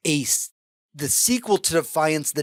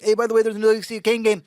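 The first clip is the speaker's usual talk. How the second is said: very fast, higher throwaway mention; rushed aside, imitated; 6 semitones higher, much faster than usual. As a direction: rattle it off like an afterthought. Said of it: "Could you slow that down".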